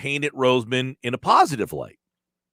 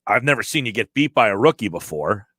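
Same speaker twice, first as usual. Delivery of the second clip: condescending; 6 semitones lower, faster than usual. Shown as a demonstration. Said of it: "if he said it in a condescending manner".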